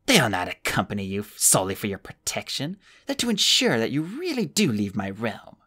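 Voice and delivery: a lightly voiced stern old woman; cold old woman. The old woman warning Flamel, lightly voiced stern old woman. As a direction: warn them coldly, no welcome.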